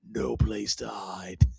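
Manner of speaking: slow, whispery matter-of-fact delivery. Retold or imitated. Imitating the rooftop moment as he tries to run away, matter-of-fact. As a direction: state it slowly, half whispered, as plain fact. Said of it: "very matter of fact".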